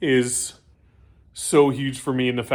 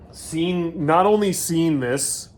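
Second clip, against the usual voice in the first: real choked-up emotion, slightly higher; holding back tears; 4 semitones higher, slower than usual. Real, not acted. Builder overwhelmed at seeing the long-carried bike, holding back tears. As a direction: fight tears while pushing the words out. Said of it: "I'm seriously holding back right now".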